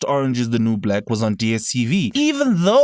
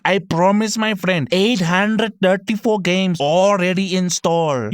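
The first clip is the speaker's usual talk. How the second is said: put-on Indian to Chinese accent; 4 semitones higher, slower than usual. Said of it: "went from Indian to Chinese".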